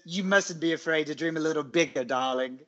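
put-on quick, light British accent ending in a laugh. Co-host quoting Tom Hardy's Eames in a British accent. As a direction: purr it like a suave British thief. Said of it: "the accent with the quote".

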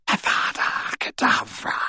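cold hissed spell; whispered curse. Acted. Voldemort casts the killing curse.

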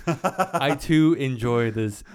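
slow stiff robotic voice; deadpan robot claiming feelings; robot faking human. Pretend. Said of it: "way to make it robotic as fuck".

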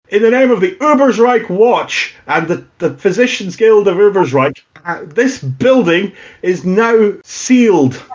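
high, formal proclamation; official town watchman. Acted. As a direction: announce the lockdown like a watchman. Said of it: "you can hear a voice going".

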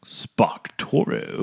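slow, questioning repeat of an odd name; drawn-out echo. Acted. Co-host echoes an odd tool name, slow and drawn out. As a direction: stretch the name right out, rising at the end.

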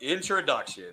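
slow, grand showman introduction; ringmaster. Acted. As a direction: roll out the big welcome. Host introducing champion.

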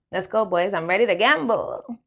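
rally the group with eager energy; excited rallying call. A narrator's reading. French calls the boys to the tables, excited.

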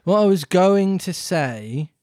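offended dodo. Acted. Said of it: "in an offended tone".

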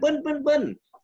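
imitated engine revs. Imitating a loud bike engine.

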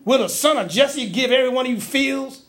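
acted berating of his own people; mildly worked-up accusing questions. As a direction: challenge them indignantly as an aggrieved king. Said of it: "So he's berating his people".

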